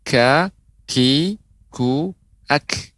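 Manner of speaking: KA, KI, KU, AK with a breathy release of air on the k; letter kaf demo. Shown as a demonstration. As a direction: sound out ka, ki, ku, ak as separate syllables. (contoh huruf kaf: ka, ki, ku, ak dengan hembusan napas)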